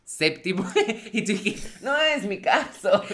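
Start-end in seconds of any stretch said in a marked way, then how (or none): 0.9-3.1 high, slow, through laughter; laughing. Real, not acted. Friend teasing her about puberty, laughing high. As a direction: say it while cracking up.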